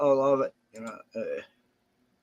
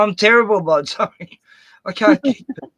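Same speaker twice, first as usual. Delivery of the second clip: mock apologetic; 7 semitones higher, 8 dB louder than usual. Acting out his own mod reply.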